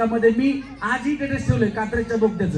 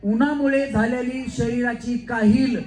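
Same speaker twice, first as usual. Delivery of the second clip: slow, measured recital of a film line; film dialogue delivery; slower than usual. Shown as a demonstration. Host demonstrating a film line for contestants to repeat, slow dialogue delivery. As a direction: recite it slowly, phrase by phrase. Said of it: "dialogue आहे".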